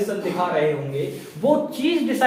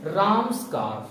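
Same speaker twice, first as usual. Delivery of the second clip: slow model answer; 2 semitones lower, 4 dB quieter, slower than usual. Shown as a demonstration. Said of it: "क्या लिखने वाले हैं".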